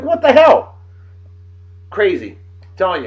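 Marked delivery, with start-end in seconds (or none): 0.0-0.8 mock exasperation. Retold road frustration.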